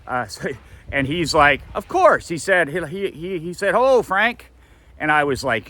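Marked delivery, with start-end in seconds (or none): 1.7-2.3 high, loud mock-sarcastic of course; sarcastic dad, high and loud; dry sarcasm. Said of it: "his humble, uh, humor, sarcasm". 3.7-4.5 cheerful greeting. Retold or imitated. Dad quoting Lafleur's greeting.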